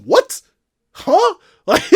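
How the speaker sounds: high incredulous what, broken by laughs; laughing disbelief. Real, not acted. Reviewer laughing in disbelief at people calling it great.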